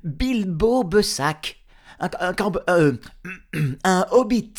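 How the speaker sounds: high, halting, frightened hobbit voice; trembling with fear. Acted. Poor Bilbo answering the trolls, scared stammer. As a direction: stammer it high, with a nervous throat-clear. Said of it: "tremblant comme une feuille".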